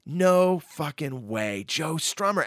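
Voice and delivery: slow, drawn-out awed disbelief; stunned disbelief. Retold or imitated. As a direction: let it out slowly, starstruck. Stunned at meeting a singer.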